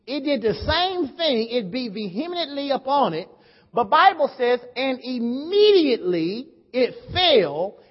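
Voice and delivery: slow, emphatic Bible reading; declaimed scripture. Real, not acted. Preacher reading the parable of the builder, measured declamation. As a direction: read the verse out deliberately to a crowd.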